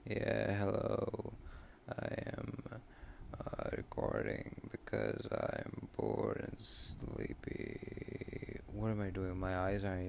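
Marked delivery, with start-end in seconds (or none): 0.1-8.6 robot voice. Pretend. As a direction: drag it out like a tired robot. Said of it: "Should I talk in a robot voice?".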